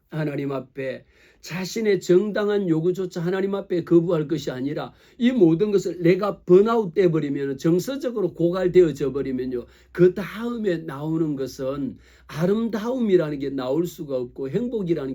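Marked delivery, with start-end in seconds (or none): none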